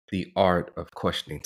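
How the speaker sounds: "art" set apart with deliberate weight; stress on art. Real, not acted. Co-host underlining a key point to Terry, stressing "art". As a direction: land firmly on "art" before "of questioning". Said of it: "and I stress the word art".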